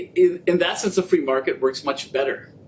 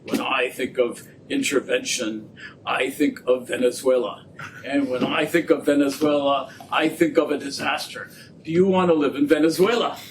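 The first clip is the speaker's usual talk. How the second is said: lightly voiced gruff economist; 2 semitones lower than usual. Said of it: "he says in a gravelly voice, which I won't imitate".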